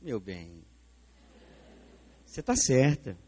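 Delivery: tender husband. Retold or imitated. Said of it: "lá em casa é assim".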